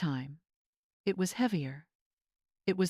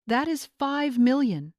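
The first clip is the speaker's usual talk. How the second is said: choked out; 6 semitones higher, 5 dB louder than usual. A narrator's reading. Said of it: "Angela choked out".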